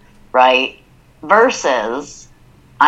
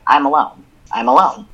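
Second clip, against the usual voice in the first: matter of fact. Shown as a demonstration. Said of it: "One is just very matter of fact".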